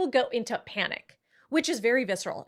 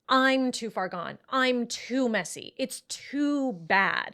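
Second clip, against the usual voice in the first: slow, hopeless self-talk; 2 semitones higher, much slower than usual. Retold or imitated. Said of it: "it's this thought".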